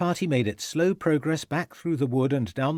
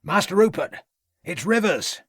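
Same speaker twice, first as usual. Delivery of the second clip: high calling voice; called out; 7 semitones higher, 3 dB louder than usual. A narrator's reading. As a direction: call to the boy across the ground. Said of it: "called out the gamekeeper".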